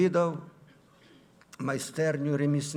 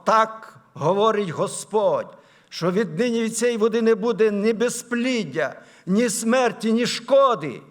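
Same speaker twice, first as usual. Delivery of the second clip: solemn, raised declaration, stretched then ringing out; louder, higher pulpit proclamation; preach; 6 semitones higher, 8 dB louder than usual. Acted. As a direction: proclaim a word from the Lord.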